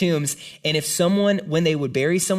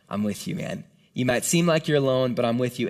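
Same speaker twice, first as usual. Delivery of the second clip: gentle reassurance; 3 semitones lower than usual. Retold or imitated. Jesus comforting lonely Paul.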